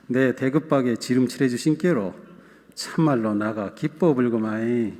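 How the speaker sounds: scripture read in a lightly put-on Jeolla dialect; 전라도 사투리로 구수하게 읽기. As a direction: read the psalm as a folksy Jeolla local. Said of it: "전라도 버전을 한번 읽어드리고".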